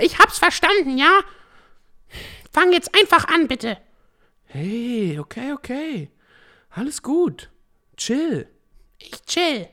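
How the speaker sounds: high synthetic AI voice; robot voice. Acted. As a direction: speak like an artificial assistant. AI voice character throughout.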